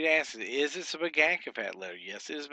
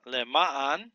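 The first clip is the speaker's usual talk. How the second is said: Lema'an with a louder middle syllable; stress on second syllable; 5 dB louder than usual. Shown as a demonstration. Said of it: "The accent is on the second syllable".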